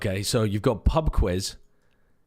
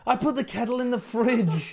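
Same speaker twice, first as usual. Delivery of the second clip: laughing; 10 semitones higher than usual. Real, not acted. Admitting kettle mistake, laughing.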